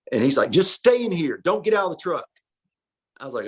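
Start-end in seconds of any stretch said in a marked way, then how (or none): 0.5-2.3 lightly imitated insistent friend, a bit higher; mild mock order, pitched up. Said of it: "you do a pretty good impersonation of him".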